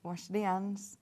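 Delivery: "Wash the hands" with no H, said "ands"; dropped H. Shown as a demonstration. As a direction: copy the Yorkshire "ands" without the H. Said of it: "It's just dropping H's".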